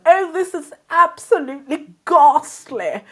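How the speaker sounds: high, hammed-up Queen's English; posh English accent. Child practising speaking properly from videos, posh English accent. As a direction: imitate the Queen's speech, exaggerated posh accent. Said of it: "videos of the Queen's speech".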